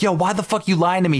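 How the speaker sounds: half-hammed angry challenge; mock livid confrontation. Retelling confronting the weed thief, mock angry. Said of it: "I'm fucking livid".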